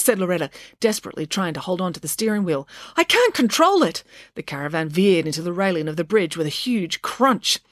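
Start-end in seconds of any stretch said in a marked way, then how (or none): 3.0-4.0 high-pitched desperate exclamation; panicked cry. A narrator's reading. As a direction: cry out while losing control. Desperate driver of skidding caravan.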